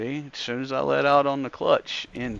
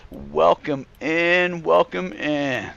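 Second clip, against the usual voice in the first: hyped greeting; 3 semitones higher, 4 dB louder than usual. Pretend.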